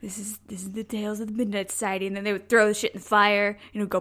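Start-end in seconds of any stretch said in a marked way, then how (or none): 0.0-2.0 spooky show intro. Retold or imitated. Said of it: "they would all gather around and say".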